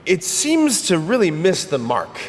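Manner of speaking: chuckling through the line; amused, half laughing as you say it; laughing at the irony. Real, not acted.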